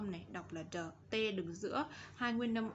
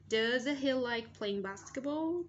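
slow, louder question with a high rising end; model question; 3 semitones higher, 5 dB louder than usual. Shown as a demonstration. Teacher asks the class about basketball, slow raised model question. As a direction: read it out slowly, lifting BASKETBALL at the end.

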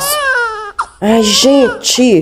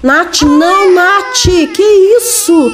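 high, play-acted motherly alarm; mock-shocked mother's reproach; alarmed protest; 6 semitones higher, slower than usual. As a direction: protest in a raised pitch as the child bolts. Alarmed mother as child runs off.

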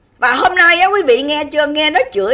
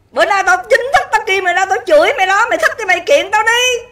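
higher-pitched, combative call-out; angry challenge; 5 semitones higher than usual. Real, not acted. Livestreamer calls out singer to sue her, angry challenge. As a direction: throw down a real challenge, pitched up.

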